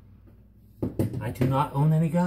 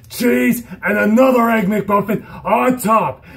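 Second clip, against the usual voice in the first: mock loud order; 5 semitones higher, 4 dB louder, slower than usual. Mock order after basic training.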